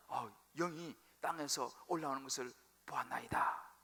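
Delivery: hushed, breathless medium's whisper; spooky hushed whisper from the medium; eerie whisper. Acted. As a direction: whisper it like a spirit is rising. Medium reports seeing a spirit.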